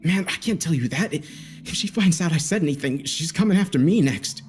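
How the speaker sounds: balk, scared of being next; bristling. A narrator's reading. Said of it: "making him bristle momentarily".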